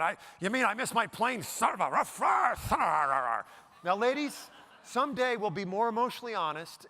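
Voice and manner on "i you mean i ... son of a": exasperated man, drawn-out strangled curse at the end; hammed-up fury over a missed plane; mock airport rage. Grown man at the airport, hammed-up angry outburst. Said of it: "They're going".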